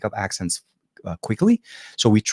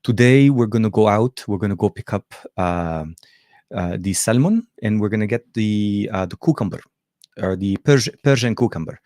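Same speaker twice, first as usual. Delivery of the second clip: imitating mom's Arabic accent; lightly voiced Lebanese mom. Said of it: "if I wanna channel my mom's conversation".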